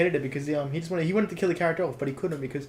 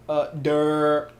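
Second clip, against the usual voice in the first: mock dumb grunt; 5 dB louder than usual. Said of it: "He's like".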